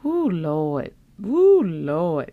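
weary sighing Lord have mercy; mock complaining. Host imitating grumbling prayers, weary and fed up. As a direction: groan it out, fed up. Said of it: "where you was talking about".

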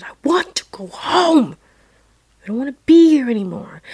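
high-pitched mock scream of a child; retold scream. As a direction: cry it out, pleading to be taken away. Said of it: "And I screamed again".

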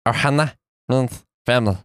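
a light Stitch impression. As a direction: croak it like the alien. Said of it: "that's a pretty good impression".

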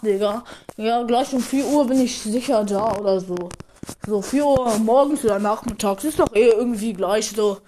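loud, careless phone chat; loud phone call. Acted. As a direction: shout into the phone while gaming. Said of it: "Der, der einfach während dem Brawl Stars zocken telefoniert".

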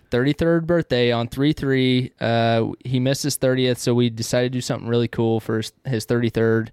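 talking around a pipe stem; pipe in mouth. Real, not acted. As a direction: speak with a pipe clenched in teeth. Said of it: "I wanna talk really weird".

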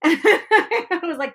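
laughing whispered aside. Real, not acted. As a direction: breathe it as a giggly whisper. Laughing aside while retelling.

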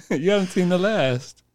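slow, soft mock-genteel vow; drawn-out villain's parting line; slow gentlemanly threat. Dying Sanders promising a return, slow and genteel. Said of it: "gentlemanly voice".

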